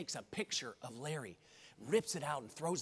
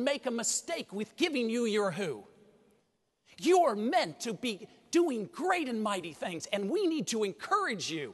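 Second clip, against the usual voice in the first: loud, raised-pitch rallying delivery; impassioned motivational speech; 6 semitones higher, 9 dB louder than usual. Real, not acted. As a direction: drive it home to the whole crowd at full force. Motivational speech at full force.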